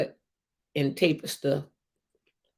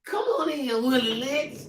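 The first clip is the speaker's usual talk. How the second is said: mock call-out; 5 semitones higher than usual. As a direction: hail him like a doorman announcing a guest. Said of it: "Him say".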